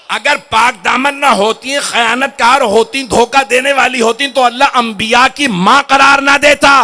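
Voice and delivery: loud, insistent sermon build to a shout; impassioned preaching. Acted. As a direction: preach it forcefully, building to the last word. Preacher's emphatic rising argument.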